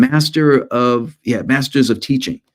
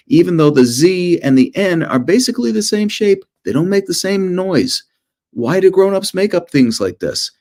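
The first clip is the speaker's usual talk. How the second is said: put-on childish whine; 7 semitones higher than usual. Childhood complaints acted out.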